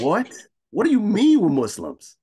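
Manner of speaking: high, loud, incredulous retelling; hammed-up retold astonishment; retold disbelief. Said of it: "And I was like".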